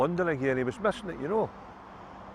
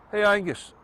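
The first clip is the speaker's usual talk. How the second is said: calling after him, pitched much higher; mock shout; 7 semitones higher than usual. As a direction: call out after Angus as he walks off. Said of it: "the English guy shouts".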